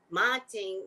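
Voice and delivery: "morning" said as "mantning"; "morning" with the r dropped; their pronunciation. Shown as a demonstration. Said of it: "That's how they say it".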